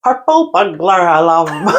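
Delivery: laughing attempt. Shown as a demonstration. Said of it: "Scottish people can't say".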